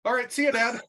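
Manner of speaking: put-on high, breezy teen voice; imitating the daughter, high and relieved; daughter realizing. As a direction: she suddenly sees there is no damage and bails. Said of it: "then suddenly she's like".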